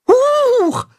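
high startled little yelp. Acted. Tacho startled as Katzenhuhn lands, high yelp. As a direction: jump at the surprise.

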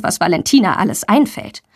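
ordinary delivery, nothing marked

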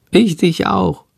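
high, bright-eyed little bat voice, chattering hectically; a flustered little bat calling out; high squeaky bat creature; little bat Shandor. Acted.

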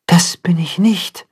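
thoughtful, doubting whisper. Acted. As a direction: say it under your breath, unsure.

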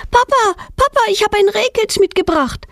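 high, excited call to dad; excited shout. A narrator's reading. Girl calls her father, excited and high. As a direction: burst out with the news, high. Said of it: "schreit Petronella mit aufgeregter Stimme".

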